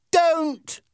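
high, loud desperate cry; screamed plea. Acted. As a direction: scream to stop the gun. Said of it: "screamed Peter".

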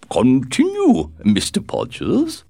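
put-on high, slow, fragile old duchess; a delicate elderly duchess, gently chiding; frail withering duchess. A narrator's reading. Duchess satisfied.

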